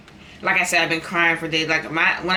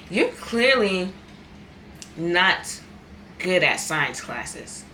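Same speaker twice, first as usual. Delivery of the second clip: imitating the advisor; much slower than usual. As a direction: drag it out like a snooty counselor. Advisor quoted, slow high mocking.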